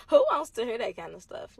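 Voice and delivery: heartbroken, voice cracking with tears; crying through the words while retelling the betrayal; real crying. Real, not acted. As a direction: laugh breaking into a cry. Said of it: "I am so heartbroken".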